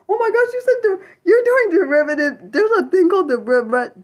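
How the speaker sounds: high, loud outburst of recognition; excited. Real, not acted. Streamer reading that viewer does derivatives, excited outburst. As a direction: blurt it out excitedly.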